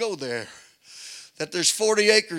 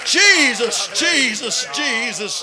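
high, loud ecstatic cries to God; overcome, crying out; 8 semitones higher, 9 dB louder, slower than usual. Real, not acted. Preacher overwhelmed by the scripture, crying out in rapture. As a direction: let the feeling break through the words.

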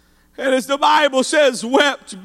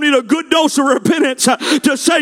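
driving, impassioned call to repentance; fervent revival preacher pleading with the congregation; full-force preaching. Real, not acted. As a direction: preach it hard, climbing in pitch at the end.

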